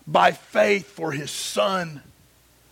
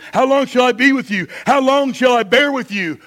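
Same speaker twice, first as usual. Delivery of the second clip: raised, driving sermon delivery; higher-pitched, emphatic pulpit reading; preaching; 5 semitones higher, 6 dB louder than usual. A narrator's reading. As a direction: read scripture with preaching force. Preaches at full force.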